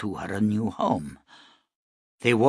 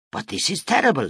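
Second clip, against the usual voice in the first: dismayed; 7 semitones higher, 3 dB louder, faster than usual. Acted. Rich woman shown the shack.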